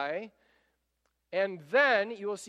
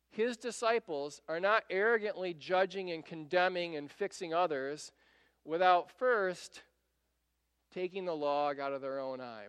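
ordinary talk, nothing marked

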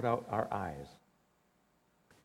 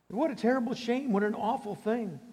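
mock lament; 8 semitones higher than usual. Sarcastic mock lament of people.

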